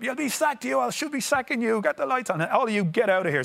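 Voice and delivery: high, raging manager's roar; mock furious roar. Manager roaring at sleepy staff, hammed-up fury. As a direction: roar the sacking threat like a raging boss. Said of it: "he roars at Morris".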